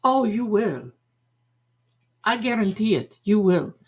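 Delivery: assured, put-on Madame Blavatsky accent; fake psychic accent. Psychic guaranteeing her prediction, fake accent. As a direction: imitate the psychic's accent, each promise set apart. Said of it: "mine is fake".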